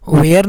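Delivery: वेयर with a long "ay" vowel before the r; mispronounced "were". Shown as a demonstration. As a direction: say वेयर in two syllables, "way-er". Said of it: "नहीं पढ़ेंगे".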